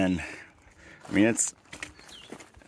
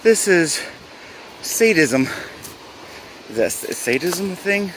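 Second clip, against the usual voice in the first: exasperated; 6 semitones higher than usual. Real, not acted. Complaining about the brutal climb.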